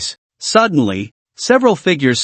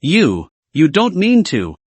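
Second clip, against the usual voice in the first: trembling voice. Acted. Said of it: "asked with a trembling voice".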